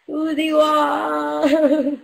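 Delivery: laughing as she says the name; giggling through the name; name said while laughing. Real, not acted.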